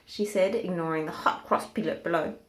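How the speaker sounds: a hint of a lofty giraffe teasing the pig. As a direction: giraffe keeping the hat, lightly voiced. Giraffe speaks to Hamilton.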